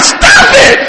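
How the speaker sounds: sudden high-pitched outburst; acted-out yell. Husband snapping at wife rubbing his hand, retold yell. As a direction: yell it out, pitch leaping right up. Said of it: "I just yelled out".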